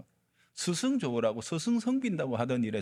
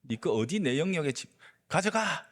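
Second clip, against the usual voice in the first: furious disciple yelling, pitch climbing higher; angry shout; 5 semitones higher than usual. Acted. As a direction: snap at the rival to move the foot away, rising to a high yell on 가져가. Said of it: "노발대발하면서 소리를 지릅니다".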